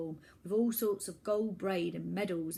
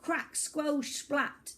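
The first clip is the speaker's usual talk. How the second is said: gleeful threat; 7 semitones higher, 3 dB louder, much slower than usual. Acted. Gleeful threats with sound words.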